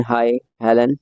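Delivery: Hi with the long I drawn out, haaai; a drawn-out Hi, glad to meet a friend; stretched hi. Shown as a demonstration. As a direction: stretch the I sound in Hi, pleased to see her. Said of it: "Notice that the I sound in hi is extended".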